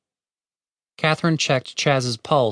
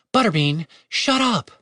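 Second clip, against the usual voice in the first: sharp command; 7 semitones higher than usual. Acted. Snaps at wolf.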